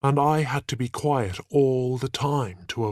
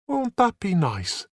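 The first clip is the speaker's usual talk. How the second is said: smiling; 9 semitones higher than usual. A narrator's reading. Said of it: "she said with a smile".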